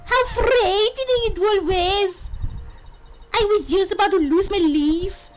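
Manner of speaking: lilting, attempted Scottish accent. Bride recalls nearly dying, in an attempted Scottish accent. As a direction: play a dramatic amateur Scot. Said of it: "could do a Scottish accent".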